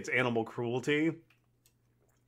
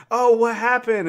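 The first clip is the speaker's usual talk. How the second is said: a high, louder mock mother's gasp; lightly voiced concerned mom; worried mom; 8 semitones higher, 8 dB louder than usual. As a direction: fuss over the hurt boy, voicing the mom. Kid's mom fussing over him.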